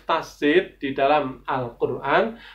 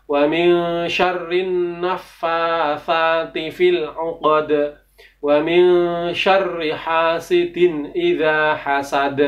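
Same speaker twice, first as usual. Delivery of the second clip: slow, careful recitation, repeated; Quran recitation; slower than usual. Shown as a demonstration. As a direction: recite it again slowly and clearly. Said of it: "Saya ulangi lagi".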